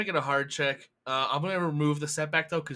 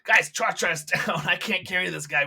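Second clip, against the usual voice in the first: mock alarm; 3 semitones higher, 5 dB louder than usual. Gus alarmed over injured friend.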